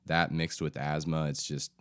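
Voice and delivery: stuffy, nasal head-cold voice; stuffy nose. Real, not acted. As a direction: talk through a blocked nose from a cold. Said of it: "Please excuse my stuffy, nasally voice. I'm dealing with a bit of a head cold".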